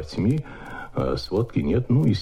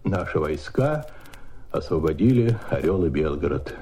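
restrained; 4 semitones lower than usual. Retold or imitated. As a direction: keep the joy in check, measured and grave. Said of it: "но нужно сдержать себя".

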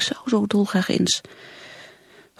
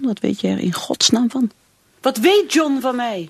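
bitter outburst; 5 semitones higher, 4 dB louder than usual. Acted. Anna resenting how little John knows her, raised bitter voice. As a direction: fling the question out in resentment.

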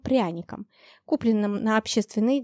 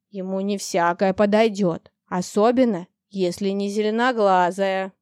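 teasing dragon. Acted. Dragon gossips to the girl.

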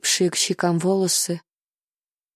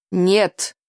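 exclaimed. Acted. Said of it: "воскликнул он".

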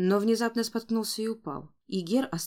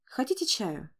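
hostess offering tea; 2 semitones higher than usual. A narrator's reading. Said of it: "спохватилась Констанс".

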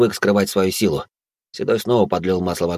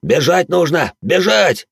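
much higher, louder desperate cry; panicked scream; 9 semitones higher, 4 dB louder, much slower than usual. Acted. Браут в ужасе кричит, что надо бежать. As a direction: shriek to run away.

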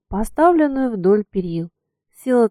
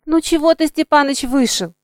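displeased drawl; 6 semitones higher, 3 dB louder than usual. A narrator's reading. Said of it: "недовольным тоном протянула".

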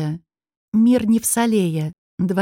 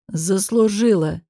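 careless; slower than usual. Acted. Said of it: "небрежно бросил мужчина".

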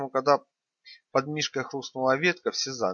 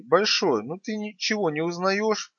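loud ringing voice; 7 semitones higher, slower than usual. A narrator's reading. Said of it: "тот же громкий голос".

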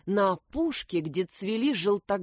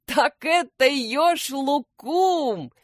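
laughing; 7 semitones higher, 5 dB louder, slower than usual. A narrator's reading. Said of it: "захохотал Эклер".

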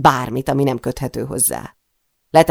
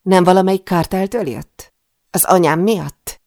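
louder, pressing challenge; insistent questioning; 5 semitones higher, 6 dB louder than usual. A narrator's reading. Heroine questions the intruder about who sent him, insistently.

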